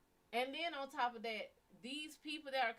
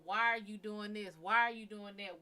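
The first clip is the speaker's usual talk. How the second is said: mad at him; 6 dB louder than usual. Retold or imitated. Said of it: "I was so mad at".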